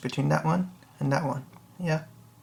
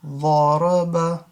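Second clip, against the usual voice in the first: slow reading; slower than usual. Shown as a demonstration. Teacher reading ضرب slowly to students. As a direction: say ضرب slowly, each letter clear.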